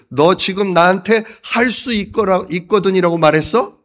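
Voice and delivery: indignant retort. Retold or imitated. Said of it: "원래는 이런 뜻이에요".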